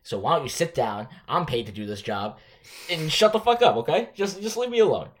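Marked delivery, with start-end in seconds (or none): 2.9-5.1 hammed-up angry shout, pitched way up; mock outburst. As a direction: snap at the reporter like a cornered boss. Mock GM losing temper.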